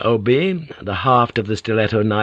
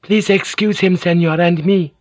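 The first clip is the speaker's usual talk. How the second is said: higher, strained courtesy; forced politeness; 9 semitones higher, 3 dB louder than usual. A narrator's reading. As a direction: sound polite through the tension. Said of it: "trying to sound polite".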